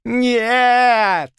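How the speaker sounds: high piercing shriek. A narrator's reading. Bishop shrieks at the hanging threat, high loud scream. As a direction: scream it in terror.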